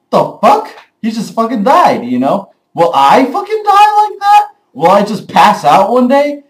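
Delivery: high, loud hammed-up fear, rising to a squeak; mock panic. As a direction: freak out like death could come any second. Imagined caveman panicking about death.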